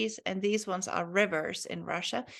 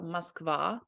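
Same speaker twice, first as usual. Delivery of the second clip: Moskva stressed on the final A, mask-VAH; stress on last vowel. Shown as a demonstration. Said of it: "the emphasis is here on the last, uh, vowel".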